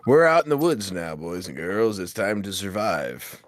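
cheery staff announcement, hammed up; mock camp counselor. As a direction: play the chipper wilderness guide.

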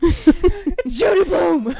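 high, slow, laughing fan shout; laughing excited shout. Retold or imitated. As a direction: shout it through laughter, starstruck. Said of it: "Caitlin just shouted".

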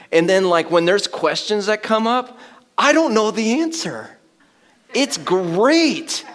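excited. Real, not acted. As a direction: bubble over with delight. Excited about not knowing.

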